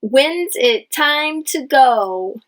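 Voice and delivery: slow, clear question; drawn-out asking. Shown as a demonstration. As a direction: read it slowly as a question. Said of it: "it is a question".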